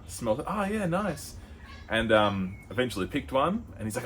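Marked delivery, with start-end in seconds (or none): 0.5-1.3 much higher, playful stoner voice; mock stoner. A tourist sniffing jars with the shop guy, in a high mock voice. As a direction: sniff and approve in a high silly voice. Voicing himself smelling.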